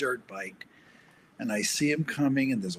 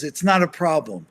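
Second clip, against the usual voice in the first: much louder, higher yell of the biker's retort; yelled back; 4 semitones higher, 10 dB louder than usual. Retold or imitated. The dirt biker yelling back at the walker, loud defiant retort. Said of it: "he yells back at me".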